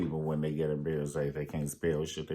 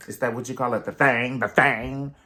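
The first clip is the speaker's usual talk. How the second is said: mock outrage; 4 semitones higher, 8 dB louder than usual.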